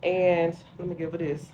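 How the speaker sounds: muffled by a face mask; through a face mask. Real, not acted. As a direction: speak through a skincare mask. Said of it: "Don't mind the mask".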